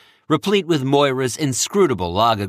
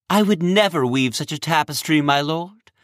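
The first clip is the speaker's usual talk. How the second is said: affronted; 6 semitones higher than usual. Acted. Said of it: "Moira was affronted".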